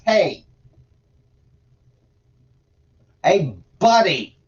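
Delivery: a hint of a stern, exasperated deity, now and then throaty; God voice. Reader voicing God scolding Ezekiel for sitting idle, lightly put-on folksy God voice. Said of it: "God voice is a little hard on the throat".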